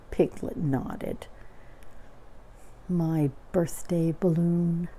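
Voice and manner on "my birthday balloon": slow, understated disappointment; dejected Eeyore. Acted. Eeyore mourns his birthday balloon, slow and subdued. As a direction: draw it out, mildly crushed. Eeyore takes in bad news.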